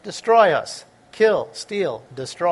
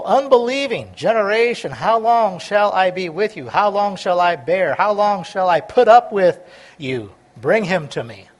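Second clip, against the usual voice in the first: rebuking Jesus; 5 dB louder than usual. Acted. Jesus rebukes the faithless generation.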